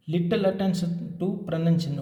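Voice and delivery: very slow, word by word, for note-taking; slow dictation. Shown as a demonstration. Teacher dictating a heading for students to copy, very slow. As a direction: spell it out slowly so students can write.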